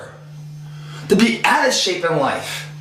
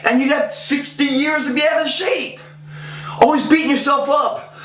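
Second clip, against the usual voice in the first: higher, shouting the warning; fired-up shout; 5 semitones higher than usual. Real, not acted. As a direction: hammer home the grim alternative. Fired-up warning about wasted years.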